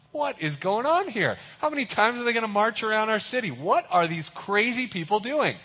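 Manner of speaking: scoffing at the crazy marchers; baffled onlookers. Retold or imitated. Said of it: "And they're like".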